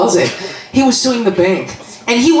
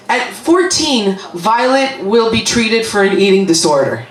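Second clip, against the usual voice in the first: ad voice read. Retold or imitated. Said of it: "So one of them says".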